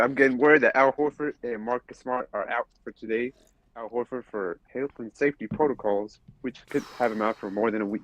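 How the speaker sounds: crisp news reporter delivery. Acted. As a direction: break it like a sideline reporter. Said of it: "That was my best reporter voice".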